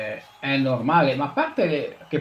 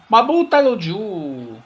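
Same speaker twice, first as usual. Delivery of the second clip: urgent shout; 9 semitones higher, 6 dB louder, slower than usual. Acted. Commentator urging keeper.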